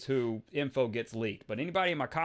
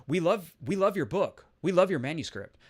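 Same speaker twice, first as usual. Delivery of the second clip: lightly voiced gushing praise, higher; gushing publisher; 3 semitones higher, 3 dB louder than usual. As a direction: imitate an enthusiastic publisher. Voices a publisher gushing over book.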